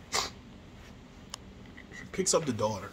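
whispered slowly, almost breathless. Shown as a demonstration. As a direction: hush it and stretch each word out. Repeats line, second time hushed.

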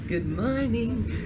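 stretched-out good morning; slow drawn-out greeting. Acted. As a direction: drawl it out slowly. Sing-song morning greeting.

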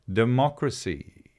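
lightly imitated slow guru. Retelling a guru's talk on democracy, slow guru manner. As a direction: stretch the word out, imitating a guru's pace. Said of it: "talks very slowly".

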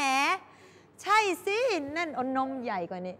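slow, drawn-out sarcastic dig; mock the boyfriend with slow spite; slow sarcastic sneer at boyfriend; sarcastic jab. ประชดประชัน.

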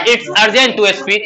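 very slow, every word laid out; slow model sentence. Shown as a demonstration. Teacher dictating the answer to the class, very slow. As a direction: say it slowly so pupils can repeat it. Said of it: "बोलना अति आवश्यक है".

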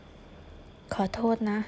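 soft, drawn-out apology; subdued apology. Acted. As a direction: apologise slowly and quietly, as if saying goodbye. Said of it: "ทำไมต้องมาทำเสียงแบบนี้". (ขอโทษเบาๆ ช้าๆ เหมือนจะบอกลา)

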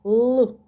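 loud, isolated "Л" consonant; isolated sound. Shown as a demonstration. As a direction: sound out a hard "Л". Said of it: "Який наступний звук?".

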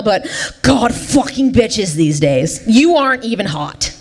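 low southern grumble from a spurned fish; southern man fish. Acted. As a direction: grouse in a put-on southern twang. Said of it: "he said".

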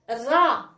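الراء said as just "ra"; fatha syllable. Shown as a demonstration. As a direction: model الراء as one open syllable "ra". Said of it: "نديرو له الفتحة".

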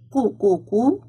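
"قو، قو، قو" as separate qoo beats; "قو" repeated as a sounded-out syllable; qaf with damma. Shown as a demonstration. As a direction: drill "قو" three times, evenly spaced. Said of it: "قاف ضمة".

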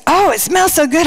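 toned-down retold gush; mild delight. Friend praising the cooking smells, mildly delighted retelling.

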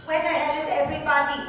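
loud, annoyed yell; angry shout. Acted. Girl yells for her missing friends, angry shout. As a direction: bark it at the empty yard. Bully searching for missing girls.

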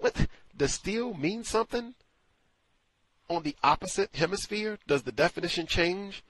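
high, loud sarcastic question; mock her definition of steal with disbelief; sarcastic challenge. Retelling own sarcastic on-air reply.

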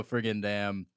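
robot voice. Acted. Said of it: "then it go".

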